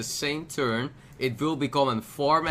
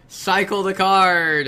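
loud, slow emphatic call; excited exclamation; 6 semitones higher, 9 dB louder, slower than usual. Real, not acted. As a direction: insist on it, laughing. Laughing exclamation.

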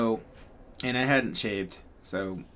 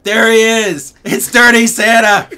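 put-on high, very loud kid's shout; child shouting; 12 semitones higher, 18 dB louder than usual. Little girl shouting at the man across the store, very loud. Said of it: "would shout out really loud".

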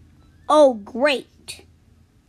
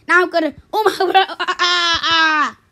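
fast, laughing; 2 semitones higher, faster than usual. Acted. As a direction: laugh through the words. Laughs heard.

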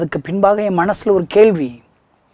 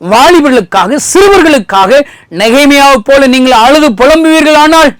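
much higher and louder, crying out the pleas; fiery preaching; 7 semitones higher, 8 dB louder than usual. Acted. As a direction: preach it at the top of your voice. Preaching appeal to listeners. (உரத்த குரலில் உணர்ச்சிமிக்க பிரசங்கம்)

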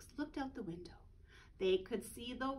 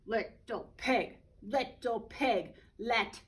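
slow, louder wolf call; 4 dB louder, slower than usual. Acted. Wolf at the straw house, calling slowly. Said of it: "he called".

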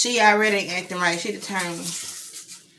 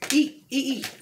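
higher, coaxing eat eat; 6 semitones higher than usual. Real, not acted.

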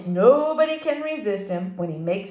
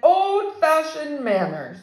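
sarcastic; 6 semitones higher, 4 dB louder, slower than usual. Acted. Sarcastic guest.

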